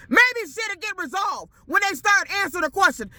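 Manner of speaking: a fed-up customer yelling the point home; angry shout. Real, not acted. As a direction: throw the line out in real frustration. Angry rant at the company.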